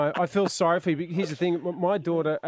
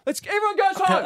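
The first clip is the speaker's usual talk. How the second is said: mock-panicked high yell; panicked dad; 12 semitones higher, 4 dB louder than usual. Embarrassed dad rushing family out of Yum Cha, panicked high shout. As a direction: herd everyone out, voice pitched way up.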